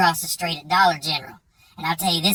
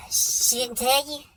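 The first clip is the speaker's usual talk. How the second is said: slow unvoiced whisper, pitched up; hushed disbelief; 6 semitones higher, slower than usual. Devin realizing Jake never knew, whispered. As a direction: let it slip out in a stunned whisper.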